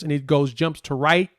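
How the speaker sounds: stumbling over the words with restarts; real halting, tongue-tied slip. Real, not acted. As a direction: trip up and grope for the phrase. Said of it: "I'm all tongue-tied".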